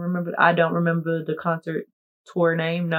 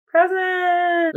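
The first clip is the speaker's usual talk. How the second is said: much higher sing-song; high punchline; 14 semitones higher than usual. Pretend. Announcing she is a present, high pitched punch. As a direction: pop the word up.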